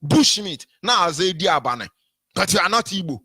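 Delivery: lightly put-on mocking voice of a rival; a hint of mock rival; mimicking Asari. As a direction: parody him with a half-hearted foreign-sounding voice. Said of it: "He's like".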